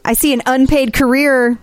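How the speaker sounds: lightly voiced fortune teller; a hint of a mystic seer reading the future; psychic hotline. Fortune-teller bit about Gina's future.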